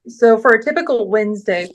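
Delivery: interrupted by a hiccup. Real, not acted. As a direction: hiccups breaking the phrase. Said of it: "oops, sorry, I've got hiccups right now".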